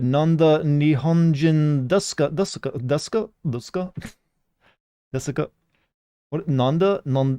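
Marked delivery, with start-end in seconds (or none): 0.0-3.9 mock Japanese voice. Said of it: "they actually do it".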